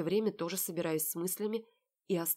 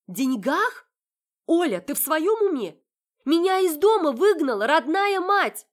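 high, loud furious outburst; outraged shout; 10 semitones higher, 12 dB louder than usual. Acted. Heroine shouting at sister over being thrown out. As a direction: yell at her in disbelief.

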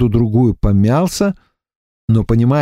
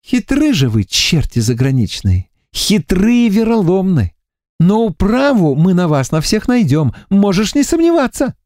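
higher, deliberate warning, stress on хитры; stern Varvara; 8 semitones higher than usual. A narrator's reading. Варвара грозит пленнику, глядя в глаза. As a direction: threaten the captive calmly to his face. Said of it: "проговорила".

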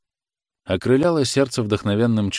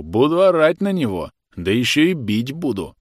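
higher, louder mock-gruff growl; 5 semitones higher, 4 dB louder than usual. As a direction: growl it like a playful bear. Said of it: "странно и смешно зарычал".

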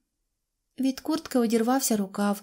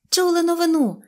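high, loud call bursting with news; shouted, high-pitched announcement; excited cry; 10 semitones higher, 6 dB louder than usual. A narrator's reading. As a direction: cry out the big news in a raised voice. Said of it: "закричала вона".

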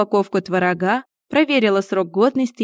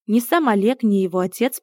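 ordinary delivery

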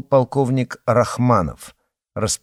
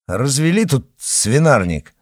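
scolding; 4 semitones higher, 4 dB louder than usual. Acted. Officer scolds the guard.

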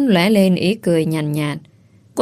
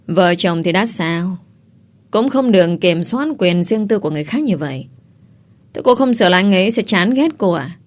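contemptuous. Acted. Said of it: "nói bằng giọng khinh khỉnh".

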